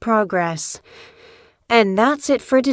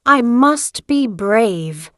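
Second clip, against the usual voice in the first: "I must be brave" said slowly, each word given weight; slow it right down and mean it; steady, unhurried resolve; slow and deliberate; slower than usual. Shown as a demonstration. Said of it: "Here is another strong phrase".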